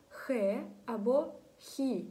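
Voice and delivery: "хе" and "хі" with a breath-like kh; soft kh reading. Shown as a demonstration. Teacher showing learners how the letters read, kh sound. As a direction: say "хе", "хі" with kh, not a hard g. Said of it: "це буде читатися як".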